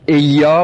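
"ایا" with a short, light opening e, eyyâ; without ishba. Shown as a demonstration. Teacher showing the reading without ishba, "ایا" opened on short e. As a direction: say "ایا" as eyyâ, the first vowel not filled out. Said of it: "بخونیم بی اشباع".

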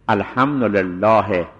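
الحمدلله drawn out slowly to a final he; pause on the vowel. Shown as a demonstration. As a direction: stretch الحمدلله and stop on its e. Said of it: "این وقف به حرکت".

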